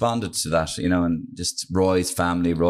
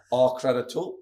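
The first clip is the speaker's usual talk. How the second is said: Roy Keane; 3 semitones higher, 3 dB quieter than usual. Acted. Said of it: "Roy Keane, will you".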